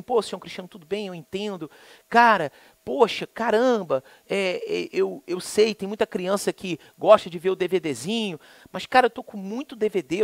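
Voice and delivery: a gentle, courteous repairman; polite technician. Retold or imitated. Softly polite technician asking the customer for patience. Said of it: "o cara tão educado".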